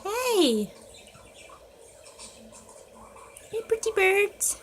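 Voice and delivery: high, coaxing pet voice. Real, not acted. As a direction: sweet-talk the birds into singing. Coaxing birds to sing.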